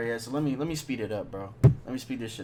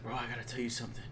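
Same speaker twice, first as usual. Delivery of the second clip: hushed secret; 9 dB quieter, much faster than usual. Retold or imitated. Drunk homie confiding in his friend's ear, hushed. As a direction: keep it hushed, close to the ear.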